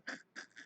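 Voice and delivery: low-volume trailing laugh; quiet chuckle. Real, not acted. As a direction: laugh softly at your joke. Laughs at own joke.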